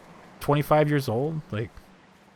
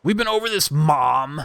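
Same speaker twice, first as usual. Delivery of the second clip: voiced son; 4 semitones higher, 4 dB louder than usual. Son yells at mom in game.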